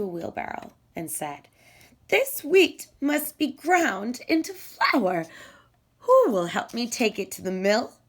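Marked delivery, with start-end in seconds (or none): 2.1-7.9 much higher, bright asking voice; the little hen asking her friends for help; hopeful hen asking. Acted.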